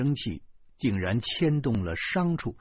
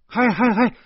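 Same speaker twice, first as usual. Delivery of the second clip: loud, high, indignant hey hey hey; furious hollering; angry shouting; 13 semitones higher, 8 dB louder than usual. A narrator's reading. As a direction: shout to stop them in their tracks. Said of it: "我恼怒地嚷嚷".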